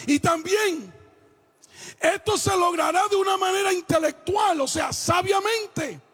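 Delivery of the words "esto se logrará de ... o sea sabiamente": forceful, projected pulpit delivery; preaching. Acted. Preacher tells husbands to respect a wife's right to speak, preaching. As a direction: preach it in long ringing phrases.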